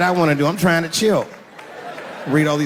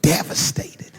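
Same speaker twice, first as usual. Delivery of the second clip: breathy hushed quote, drawn out; mock devastated; slower than usual. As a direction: say it as if quoting a wounded fan. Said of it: "that they were, quote".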